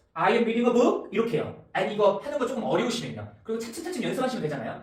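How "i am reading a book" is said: pitch rises at the end on "book". Showing a question by raising only the sentence end: final rise on book. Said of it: "이 상태에서 그냥 끝에만 올리라고요".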